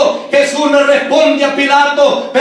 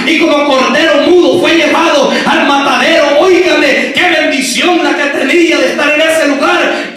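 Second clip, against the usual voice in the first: forceful, driving preacher delivery; prédica enérgica. Real, not acted. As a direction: preach it out with insistent, ringing conviction. (predicación enérgica y enfática)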